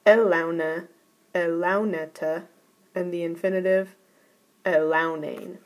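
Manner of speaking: teacher recites the imperatives and the infinitive; reciting imperatives. Shown as a demonstration. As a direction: elauneta stressed on LAU, then elaunane stressed on LAU. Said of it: "The imperative".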